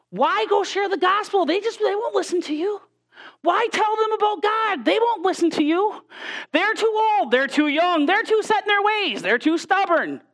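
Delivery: high, nagging doubts; devil's discouraging voice. Retold or imitated. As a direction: pester like the enemy talking you out of witnessing. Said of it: "The enemy tells us".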